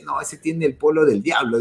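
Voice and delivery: mocking churchgoers, laughing. Churchgoers judging a man in a devil shirt, said laughing. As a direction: imitate the judgmental churchgoers through a laugh. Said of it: "dicen, ¿no?".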